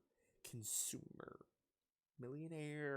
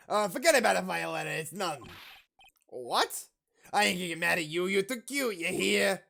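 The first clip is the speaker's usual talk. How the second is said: gangster softening; 4 dB louder than usual. Acted. Gangster voice soothing the girl.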